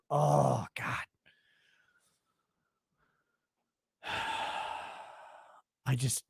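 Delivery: hushed, faked sob over the engines; mock crying. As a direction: mourn them in a broken whisper.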